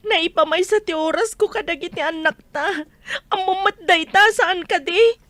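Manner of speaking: crying through a hurt complaint; tearful. Acted. Wife tells husband her time goes to the children, crying. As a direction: push the words out past tears.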